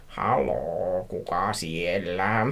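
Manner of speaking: slow, drawn-out phone answer; mock-hushed, stretched-out hello; quiet voice. A narrator's reading. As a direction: answer the phone cautiously, dragging the words. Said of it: "sanoin hiljaisella äänellä".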